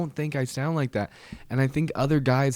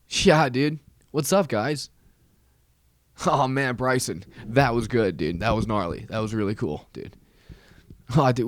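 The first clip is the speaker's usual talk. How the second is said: lightly voiced snowboarder bro; a hint of stoked snowboarder slang voice; snowboarder dude. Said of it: "I don't know what snowboarders do".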